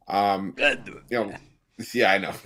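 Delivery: peanut butter stuck to the roof of the mouth; talking through a mouthful of peanut butter; mouth full of peanut butter. Real, not acted. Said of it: "got peanut butter stuck to the roof of my mouth".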